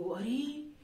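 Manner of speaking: a touch of disbelief, as a classroom example; surprise. Shown as a demonstration. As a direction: demonstrate mild surprise. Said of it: "जैसे हम आश्चर्य को".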